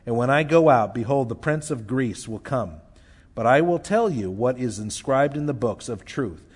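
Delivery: measured, solemn reading of the passage; scripture reading. Acted. Preacher reading Daniel's vision to the congregation, solemn. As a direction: read the vision as sacred text.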